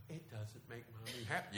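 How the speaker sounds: lightly mimicked placating mommy voice; calm mother. Preacher mocking mother's lecture to her child, calm. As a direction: imitate a softly reasoning mother. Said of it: "she's very calmly saying".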